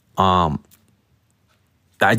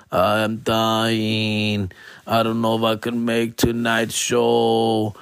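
weak groaning; much slower than usual. Retold or imitated. Quoting himself hungover to openers.

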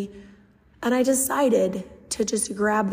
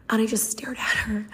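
hushed. Real, not acted. Awed narration.

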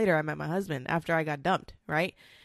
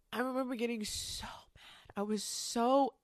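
whispered; 6 semitones higher, 4 dB quieter than usual. Real, not acted. Emotional retelling, voice drops.

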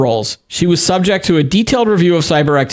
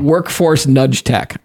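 slow and deliberate; much slower than usual. Shown as a demonstration. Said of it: "I wanna know what workforce nudge tech is".

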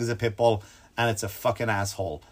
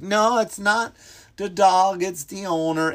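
higher-pitched mock protest; protesting dog lovers; 7 semitones higher, slower than usual. Dog lovers defend pit bulls, mock protest. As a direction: push it up like an indignant objector.

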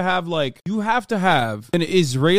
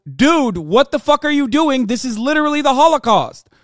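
mock outraged world; 7 semitones higher, 5 dB louder than usual. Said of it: "the rest of the world doesn't go".

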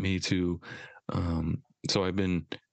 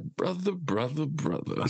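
tough-guy greeting; 4 semitones higher than usual. Retold or imitated. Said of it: "He's like".

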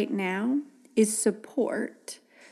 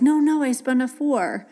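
put-on higher, louder kid insisting; a stubborn kid, pitched up and loud; insistent kid; 4 semitones higher, 4 dB louder than usual. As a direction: dig in on the fib like a stubborn child. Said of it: "if they stick to it, like".

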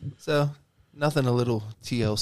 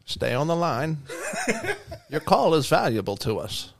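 hold recording voice; 3 semitones higher than usual. Shown as a demonstration. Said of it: "please hold voice".

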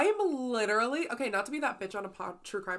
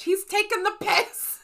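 a light mock British accent, slower; 8 semitones higher, 6 dB louder, slower than usual. Joking that Diane sounds British, mock British accent. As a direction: say it like a cheeky Brit. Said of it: "Or she was British".

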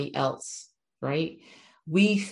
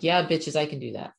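cocky swagger. Retold or imitated. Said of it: "I saunter off like".

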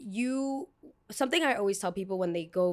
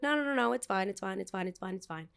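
forced reassurance. Retold or imitated. Seeing clouds over the airport, she soothes herself, fading out. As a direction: talk yourself down until the words die away. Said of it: "And I'm like".

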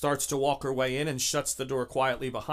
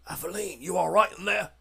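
higher-pitched in-character check-in; raised pitch, voice put on; calling through a door; 5 semitones higher, 3 dB louder than usual. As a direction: call to the next room with concern. Companion calls through door.

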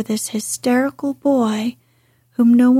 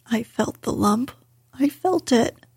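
choked out. Acted. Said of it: "choked out Colin".

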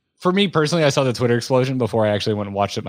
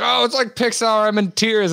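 mock gushing fan; 10 semitones higher than usual. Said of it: "my Twitter feed was like".

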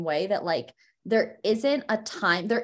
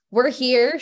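numb mouth after fillings; numb from the dentist; 5 semitones higher, 7 dB louder than usual. Real, not acted. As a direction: numb lips, slightly slurred. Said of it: "I can't feel my face".

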